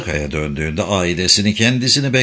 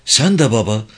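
bitter; 6 semitones higher than usual. A narrator's reading. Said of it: "dedi Kadri acı acı".

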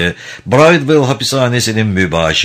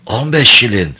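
rasping voice; 4 semitones higher than usual. Acted. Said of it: "kulak tırmalayan hırıltılı bir sesle".

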